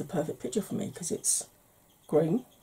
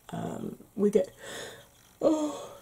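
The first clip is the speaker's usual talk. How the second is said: talking through a yawn; 2 semitones higher, slower than usual. Real, not acted. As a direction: yawn breaking into words. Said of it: "I keep yawning through this".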